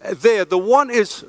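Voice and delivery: breathless, rushing preacher; out of breath from preaching fast; hyperventilating. Real, not acted. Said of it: "I'm hyperventilating".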